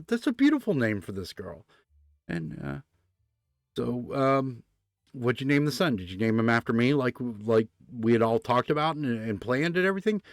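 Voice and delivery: put-on a new dad who hears the baby's name is fine, then gets hopeful; relieved new father. Relieved new father in retold joke.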